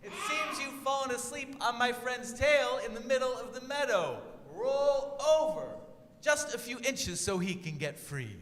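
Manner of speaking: very high, slow squeaky call; squeaky mouse yelling into a giant ear; tiny mouse shout. A narrator's reading. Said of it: "he shouted with all of his voice".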